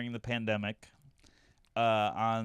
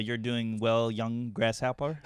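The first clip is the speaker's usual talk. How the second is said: wise master voice; slower than usual. Retold or imitated. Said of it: "it looked like I did an accent".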